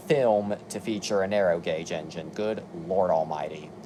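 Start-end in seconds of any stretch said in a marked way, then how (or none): 2.3-3.7 weary sigh. Real, not acted. Weary aside at the list.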